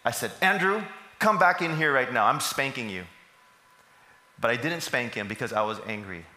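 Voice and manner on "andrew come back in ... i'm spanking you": put-on sharp raised call to a child; a hint of a father's irritated shout. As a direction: summon the son back, fed up. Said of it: "I got irritated".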